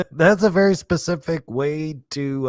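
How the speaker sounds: words broken up by real laughter; laughing through it. Real, not acted. Streamer cracking up at a movie line, laughing. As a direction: laugh as you say it again.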